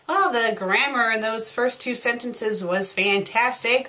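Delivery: deadpan sarcastic praise. Real, not acted. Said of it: "That's sarcasm".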